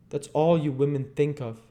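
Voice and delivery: rough, scornful man's voice; Sikes's voice. Acted. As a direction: sneer it like Bill Sikes.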